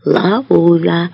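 resounding but restrained call; loud voice. A narrator's reading. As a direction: repeat it out loud in a full voice. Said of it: "повторює він гучним голосом". (гучним голосом, стримано)

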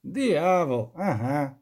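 firm, deliberate emphasis on Диявол; said with pressure. A narrator's reading. Elder repeating to the witcher, firmly stressed. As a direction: lean on Диявол, then a firm ага. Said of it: "повторив із натиском кмет".

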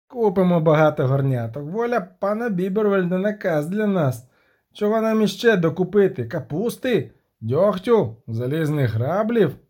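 lightly put-on servile tone; a hint of sarcastic obedience; lightly voiced halfling playing the eager servant; mock obedient halfling. Halfling mocking the messenger.

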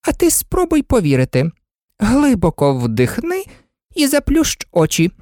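high, fluttering queen pleading; fussy queen. A narrator's reading. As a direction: coax her high and anxiously out of tears. Queen voice in story.

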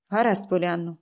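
quietly, as if someone else; aunt's hushed odd tone; strange voice. Acted. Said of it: "тим самим дивним, аж наче не своїм голосом".

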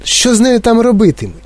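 high, fearful asking; alarmed question. A narrator's reading. Mother fears for Violet in juicing room, alarmed question. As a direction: ask in horrified worry. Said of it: "сахнулася пані Борегерд".

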